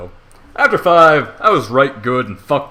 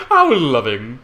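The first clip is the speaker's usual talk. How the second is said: plain reading voice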